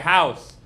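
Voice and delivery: house said crisply and clearly; therapist's model word. Retold or imitated. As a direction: say "House." as a speech therapist would, crisp and careful. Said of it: "she was like".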